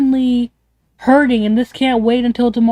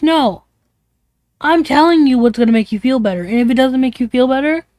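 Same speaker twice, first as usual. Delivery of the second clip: mock-insistent, laying down the advice; 2 semitones higher than usual. Acts out insistent, unhelpful friend.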